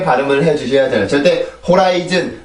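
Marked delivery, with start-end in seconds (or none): 1.7-2.4 호라이즌 with even beats, no stress; wrong Korean way. Shown as a demonstration. Teacher showing the wrong flat Korean reading. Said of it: "이렇게 발음을 하는 게 아니라".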